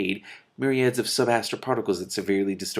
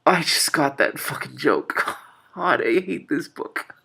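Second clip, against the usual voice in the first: amused disbelief breaking into laughter; laughing; 6 semitones higher, slower than usual. Real, not acted. Reader cracking up at the book's joke, laughing. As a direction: laugh at the joke you just got.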